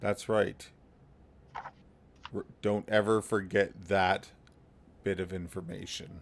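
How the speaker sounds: muttered under the breath. Speaking in character to a companion: said under the breath. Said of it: "under my breath to him".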